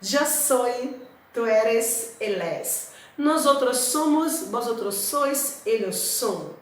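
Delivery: careful teacher's Spanish, each form set apart; Spanish conjugation drill. Shown as a demonstration. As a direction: model the forms for the class to repeat. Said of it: "Então vamos lá conjugar o verbo ser". (conjugação em espanhol, pausada e didática)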